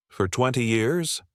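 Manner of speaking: slow, calm questioning echo with a rising end; calm mirror. Retold or imitated. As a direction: repeat it back gently, inviting him to go on.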